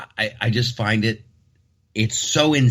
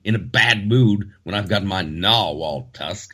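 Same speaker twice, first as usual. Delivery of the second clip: mock British bravado. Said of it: "I say".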